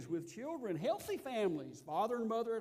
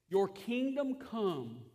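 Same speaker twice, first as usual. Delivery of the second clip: slow solemn reading; much slower than usual. Acted. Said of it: "reading the prayer line".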